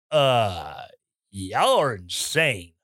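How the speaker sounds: a lightly voiced friend, low and slow; unimpressed gay friend. Gay friend brushing off the flag-wavers, low and slow.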